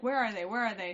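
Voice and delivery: retold frantic dad calling out; imitated yelling. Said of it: "he was, like, yelling at everybody".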